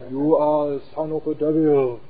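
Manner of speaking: slow, odd accusing voice; slow put-on accuser; mock accuser. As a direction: drag out the accusation. Passerby accuses the preacher.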